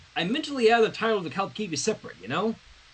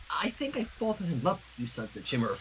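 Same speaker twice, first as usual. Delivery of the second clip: heavy breath; 6 dB quieter than usual. Acted. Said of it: "her breath heavy".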